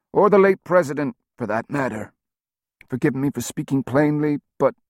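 hoarse, nasal voice of a wounded man; gravelly and nasal. A narrator's reading. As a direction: rasp through a breathing tube. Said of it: "voice was gravelly and nasal".

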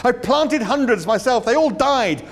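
high, loud, flustered rush; emotional outburst. A narrator's reading. Arthur to Ford, desperate to talk again, high and loud. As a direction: pour it out high and loud, hunting for words. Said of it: "in a sudden access of emotion".

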